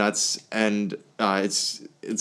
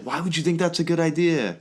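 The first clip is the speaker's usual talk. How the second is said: wife quote; 6 semitones higher than usual. Acted. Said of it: "and she's like".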